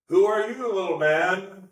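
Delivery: mock him as a tiny man; scornful God. Shown as a demonstration. Voicing God scornfully to show a harsh reading, sneering. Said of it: "it can feel like".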